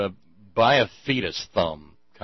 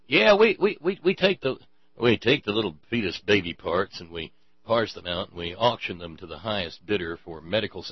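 mock villain confession. Mocking the fetus-selling claim.

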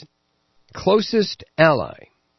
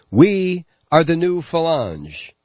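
declaring; 4 semitones higher, slower than usual. Retold or imitated. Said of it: "by declaring".

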